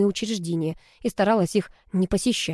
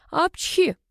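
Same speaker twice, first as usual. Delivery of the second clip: sharp sneeze, much higher; 11 semitones higher than usual. A narrator's reading. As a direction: sneeze mid-sentence. Character sneezes. (чихнуть)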